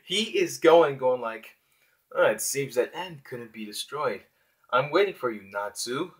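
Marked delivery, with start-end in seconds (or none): 2.1-6.1 badass voice. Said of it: "in that badass voice".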